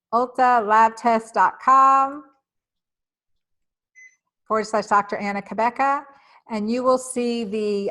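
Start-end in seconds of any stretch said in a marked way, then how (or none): 0.1-5.2 slow dictation. Shown as a demonstration. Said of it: "spelling out a web address".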